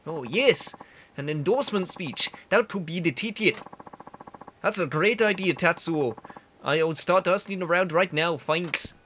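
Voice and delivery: excited candidate in bad Canadian; delighted, hammy Canadian voice; awful Canadian accent. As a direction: perk up with a badly faked Canadian accent. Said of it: "I know the accent is awful".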